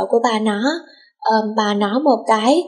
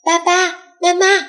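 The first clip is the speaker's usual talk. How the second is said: mild excited yell; 8 semitones higher, slower than usual. A narrator's reading. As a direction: call out to your parents in a lifted, excited voice. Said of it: "nó đã hét ầm lên".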